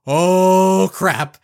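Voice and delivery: loud, sudden panicked oh crap; panicked outburst. Retold or imitated. Grandmother realizes the kid swallowed the pills, loud and alarmed. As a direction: blurt it in alarm. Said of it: "look of panic".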